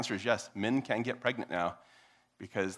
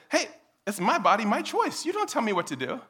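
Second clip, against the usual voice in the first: high-pitched, defiant comeback; mock defiance; 12 semitones higher, 5 dB louder than usual. Speaker talking back to Eric, mock defiant. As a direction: play someone insisting on their rights. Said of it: "And I said".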